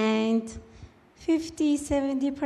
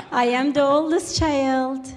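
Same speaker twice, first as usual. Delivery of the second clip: laughing; 3 semitones higher, 6 dB louder than usual. Real, not acted. Still laughing after the joke.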